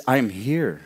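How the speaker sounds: calm, unhurried reply; steady, understated calm. Acted. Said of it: "talking really calm instead of sounding confused".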